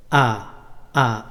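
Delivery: drawn-out clear আ, open vowel; short a sound. Shown as a demonstration. Teacher shows children the single-jabar sound, slowly. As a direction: say আ slowly, mouth open wide. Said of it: "এভাবে".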